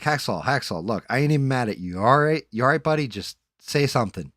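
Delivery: loud worried call to a silent friend. Retold or imitated. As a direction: call out to a friend who won't answer. Calling a silent friend on mic.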